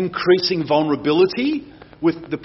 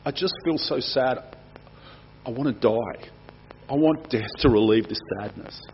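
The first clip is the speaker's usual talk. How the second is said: despairing inner voice; 3 semitones lower, 5 dB quieter than usual. Retold or imitated. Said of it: "have you ever felt like".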